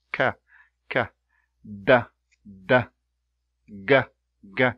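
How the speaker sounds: "K, k, d, d, g, g" each said as one short crisp burst; single release demo. Shown as a demonstration. Teacher demonstrating plosives to learners, crisp single bursts. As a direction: clip every stop once, no friction after. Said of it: "one time pronunciation".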